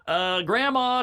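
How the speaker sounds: put-on high kid voice; tattling niece. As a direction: play the tattletale child. Niece voiced calling grandma.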